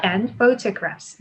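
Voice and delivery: And photographs, slowly dropping to close the list; falling intonation. Shown as a demonstration. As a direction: let photographs fall at the end. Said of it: "내려갑니다". (photographs 끝 억양을 내려서)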